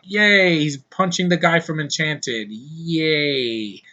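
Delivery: mock cheer, dripping sarcasm; fake-excited yay that means boring; sarcastic yay. Reviewer mocking the lame end fight with a sarcastic cheer. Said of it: "and I'm like".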